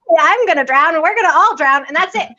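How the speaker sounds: mock panic. Telling her mom about the pool, in hammed-up mock panic. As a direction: play up the disaster fear as a joke.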